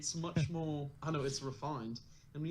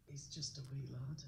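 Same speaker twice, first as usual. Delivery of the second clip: a light Scottish lilt on wee lad; soft Scottish accent trial; 2 semitones lower, 10 dB quieter than usual. Shown as a demonstration. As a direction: try out the Scottish accent, softly. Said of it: "been wanting to say".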